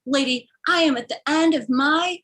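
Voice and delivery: exasperated driver. Retold or imitated. Driver to passenger's aunt, mock exasperation. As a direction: imitate a driver who has had enough. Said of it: "he's like".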